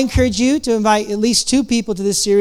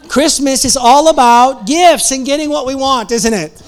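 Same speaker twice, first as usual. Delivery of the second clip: louder and higher, still laughing; laughing through words; 4 semitones higher, 6 dB louder than usual. Real, not acted. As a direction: talk through the laughter, amused. Laughing after the punchline.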